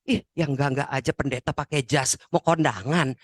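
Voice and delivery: low, disapproving mock grumble; grumbling to oneself. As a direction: grumble under your breath at the pastor. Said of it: "ngedumel sendirian". (menggerutu sendirian, nada rendah)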